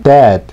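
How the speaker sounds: dead with a delayed D; slow dead. Shown as a demonstration. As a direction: hold the tongue, then release D in dead. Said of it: "한 박자 느리게". (한 박자 느리게 dead)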